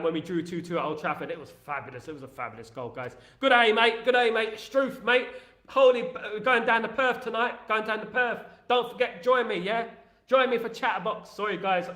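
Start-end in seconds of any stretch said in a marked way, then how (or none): 3.4-11.3 hammed-up, badly faked Australian accent. Host inviting mates down to Perth, bad Australian accent. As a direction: do a chirpy, poor Australian accent. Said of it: "that my Australian accent is bad".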